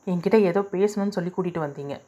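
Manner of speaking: fast, irritated retort. Acted. Heroine to Ranjan, fed up at being brought along, fast and irritated. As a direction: rush it out, annoyed and impatient. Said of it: "என்றாள் எரிச்சலுடன்".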